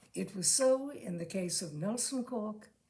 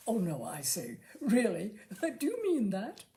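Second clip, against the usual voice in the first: simpering. Acted. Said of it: "he just simpered a bit".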